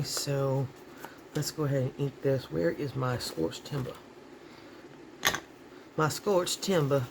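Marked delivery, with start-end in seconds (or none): 2.5-3.9 light Southern drawl with dropped r's. Real, not acted. Crafter hunting for supplies, light Southern drawl. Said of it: "there's some of my southern drawl". 6.0-7.0 slower, drawn-out Southern drawl. Shown as a demonstration. Crafter showing off to viewers, drawn-out Southern drawl. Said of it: "there's some of my southern drawl".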